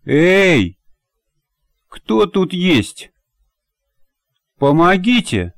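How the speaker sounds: высокий отчаянный зов издалека; позвать на помощь, медленно и протяжно; зов о помощи. A narrator's reading. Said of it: "услышала". (раненый зовёт на помощь, отчаянно)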